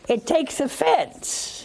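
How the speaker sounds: hiss-free hush that drives the point home; emphatic whisper. Acted. Preacher listing love's faults, whispered for emphasis. Stressing Paul's words on love.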